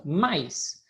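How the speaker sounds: "Mais" as one unbroken syllable. Shown as a demonstration. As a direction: say "Mais" in a single sound, no break. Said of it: "um som pronunciado de uma vez".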